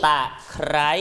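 ตะไคร้ with the kr cluster in ไคร้ fully sounded; teacher models ตะไคร้, pressing the r of ไคร้; ไคร้ said as kr-ai, not kai; clear consonant cluster. Shown as a demonstration. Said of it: "ควบกล้ำตรงคำว่าไคร้ด้วย".

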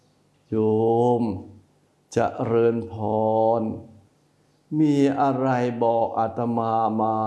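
a monk's calm, patient welcome; gentle monk's greeting. Shown as a demonstration. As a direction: greet the layperson kindly and unhurried. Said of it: "จะอย่างนี้ไหม".

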